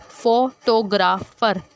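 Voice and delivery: "फोटोग्राफर" slowly as फो, टो, ग्राफ, फर; syllabic division. Shown as a demonstration. Teacher repeating the division, "फोटोग्राफर" beat by beat. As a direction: pronounce "फोटोग्राफर" in measured, separate syllables. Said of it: "syllabic division हमने देनी".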